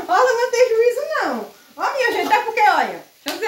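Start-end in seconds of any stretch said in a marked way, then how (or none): 0.1-1.5 mock viewers scolding. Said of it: "Vocês vão dizer".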